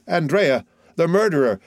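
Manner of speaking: mildly acted alarm; alarmed cry. A narrator's reading. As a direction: cry out in recognition and fright. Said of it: "cried one of the ladies".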